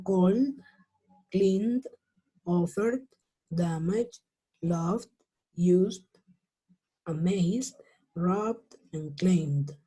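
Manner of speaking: no e in the endings, "cleaned" as klind. Shown as a demonstration. Teacher reading out the list, D endings. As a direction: list from "called" to "claimed", each closed on d. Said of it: "Con una D al final".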